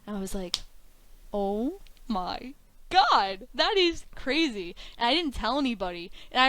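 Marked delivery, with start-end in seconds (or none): 1.3-4.7 slow, drawn-out disbelief; retold amazement. Student hearing the debut offer, drawn-out amazement. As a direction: stretch it out, stunned, then lift. Retold reaction to big news.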